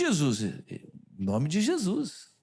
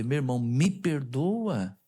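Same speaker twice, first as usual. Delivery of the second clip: heartfelt apology. Retold or imitated. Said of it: "E falei de todo o coração".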